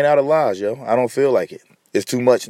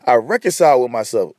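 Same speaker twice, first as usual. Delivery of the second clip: voice crack; 3 semitones lower than usual. Real, not acted. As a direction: voice cracking on the phrase. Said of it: "Did y'all hear my voice crack?".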